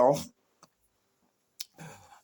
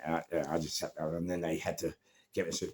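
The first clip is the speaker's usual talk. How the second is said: ordinary talk, nothing marked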